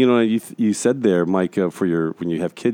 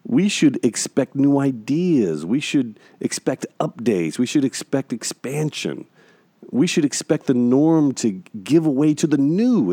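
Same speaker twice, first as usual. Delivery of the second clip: slow, rolling sermon cadence with each "we" leaned on; preaching. Real, not acted. Host making his point to co-host, slow preaching cadence. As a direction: build the list like a preacher, one line at a time. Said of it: "Yeah, preach".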